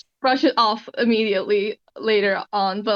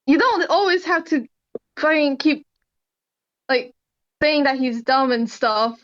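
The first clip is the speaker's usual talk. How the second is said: higher, exasperated protest; annoyed; 3 semitones higher than usual. Acted. Specs tells Guppy to compliment his brother, annoyed and higher. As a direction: plead the brother's case, exasperated and rising. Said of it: "Specs is just really annoyed".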